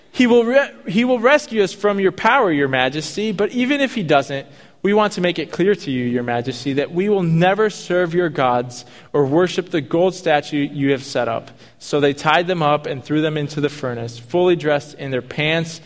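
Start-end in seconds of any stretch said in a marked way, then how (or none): 0.1-11.5 defiant declaration. Retold or imitated. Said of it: "he says".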